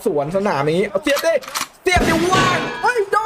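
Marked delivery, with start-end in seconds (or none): 1.8-3.2 high-pitched yell to the striker; urgent excited cry. Real, not acted. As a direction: urge him frantically to take the chance. Urging striker at open chance. (ร้องเชียร์เสียงสูงอย่างลุ้นสุดตัว)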